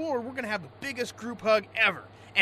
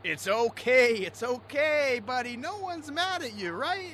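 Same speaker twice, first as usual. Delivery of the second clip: consoling; 3 semitones higher than usual. Acted. Consoling the crying worker.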